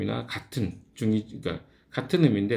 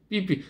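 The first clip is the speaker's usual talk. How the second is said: higher-pitched car sensor beeps; short mock alarm tones; imitated warning beep; 7 semitones higher, slower than usual. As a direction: mimic a parking sensor's double beep. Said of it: "소리가 났었어요".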